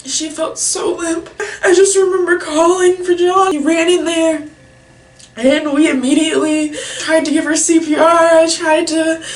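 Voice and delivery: loud, high-pitched tearful telling; real sobs breaking into the story; crying. Real, not acted. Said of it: "can't say without crying".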